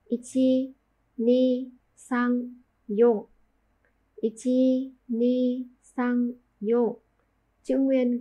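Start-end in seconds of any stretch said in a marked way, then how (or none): 0.0-3.3 Japanese counting read slowly, each number spaced; counting strokes. Shown as a demonstration. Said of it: "Có bốn nét". 4.2-7.0 Japanese counting, each number spaced apart; counting strokes again. Shown as a demonstration. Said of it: "Có bốn nét".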